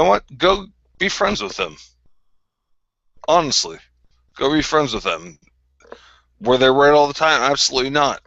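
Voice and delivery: heated. Real, not acted. Heated rant at a rival streamer.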